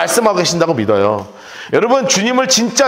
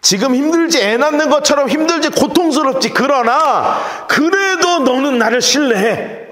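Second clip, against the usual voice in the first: God's comfort; 5 semitones higher than usual. Acted. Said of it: "그 뜻이에요".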